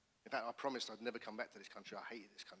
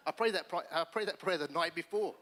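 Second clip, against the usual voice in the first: excited laughing; 6 semitones higher, 10 dB louder than usual. Real, not acted. Laughing recalling answered prayer.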